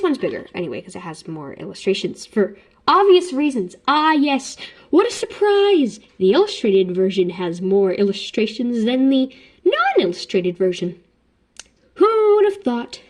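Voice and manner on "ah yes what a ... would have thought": exaggerated mock amazement, pitched up on the exclamations; sarcastic surprise. Vlogger mocking her own obvious remark, sarcastic surprise. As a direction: act astonished by the totally obvious.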